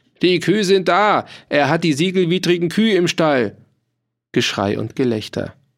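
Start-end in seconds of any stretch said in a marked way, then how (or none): 0.2-3.6 high-pitched, screeching, shrieking cry. One of the bailiff's men raiding the farm calls out to the others, shrieking. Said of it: "Einer kreischte".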